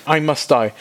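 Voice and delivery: high, strained panic; a terrified man who knows he's doomed; high comic panic at seeing God; panicked Isaiah. Acted.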